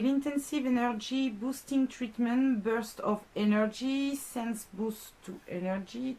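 slow English product name with a strong French accent; French speaker stumbling over an English label. Real, not acted. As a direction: plod through the English words in a French accent. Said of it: "réussi à capter mon accent, absolument horrible".

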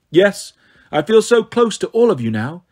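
lightly voiced villainess, falsely affectionate; a hint of icy mock affection; mocking snow goddess. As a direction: tease them as a cool goddess.

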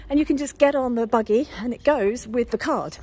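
breathing hard while walking; puffing between words. Real, not acted. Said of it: "Sorry if I'm a bit out of breath".

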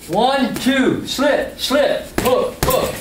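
calling out each punch; coach calling combos. Shown as a demonstration. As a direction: count the combo like a trainer. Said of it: "One more time, slow".

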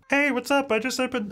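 high, bouncy sim voice; male sim voice. Shown as a demonstration. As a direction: greet like a cheery sim. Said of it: "that's my male sim voice".

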